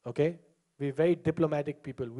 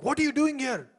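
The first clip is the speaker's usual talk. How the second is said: mock angry lady; 7 semitones higher than usual. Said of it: "she's so angry with this guy".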